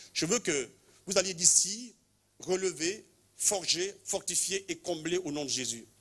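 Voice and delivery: preacher sending the faithful out with fire; fervent proclamation. Real, not acted. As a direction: proclaim it over the crowd. Preacher's commissioning declaration.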